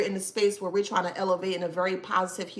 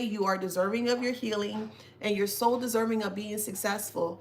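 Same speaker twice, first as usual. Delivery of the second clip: ordinary talk, nothing marked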